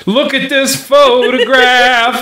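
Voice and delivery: slow, emphatic courtroom reveal; dramatic accusation. Acted. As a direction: present the evidence with flair.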